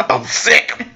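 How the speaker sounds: high, weak fake-sick voice; faking frailty. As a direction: sound pitifully ill, badly faked. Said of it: "That's the fake sick call".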